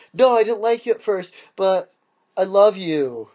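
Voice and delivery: badly faked movie heroine; hammed-up declaration of love; bad chick voice. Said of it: "can't really do a chick voice very well".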